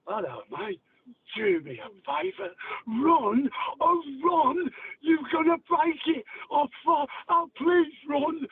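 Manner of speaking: put-on high, pleading old Cockney; old Cockney accent. Shown as a demonstration. Old Cockney begging a mate to run, high-pitched Cockney. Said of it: "That, that old accent".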